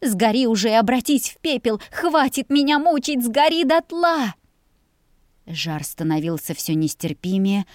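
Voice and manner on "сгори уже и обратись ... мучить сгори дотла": rising, louder cries, slowing at the end; despairing curse. A narrator's reading. Girl begging the burning house to end her torment. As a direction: beg the house to burn away.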